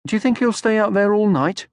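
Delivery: put-on excited young troll voice; Moomin Troll. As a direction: call out like an eager young troll.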